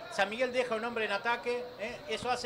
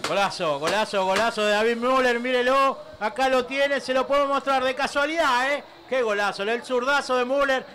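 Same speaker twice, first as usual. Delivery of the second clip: loud, excited goal celebration; breakneck goal commentary; 5 dB louder than usual. Real, not acted. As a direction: shout the praise over the crowd.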